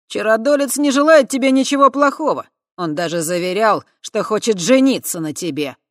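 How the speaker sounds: high, loud coaxing lad's voice; benevolent tipsy lad. A narrator's reading. Voytek soothing Kava that the sorcerer means well. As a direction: coax her kindly, a bit drunk. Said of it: "самым благожелательным тоном".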